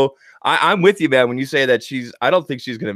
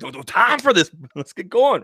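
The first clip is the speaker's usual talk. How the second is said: imitating Bran; 7 semitones higher than usual. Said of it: "He's like".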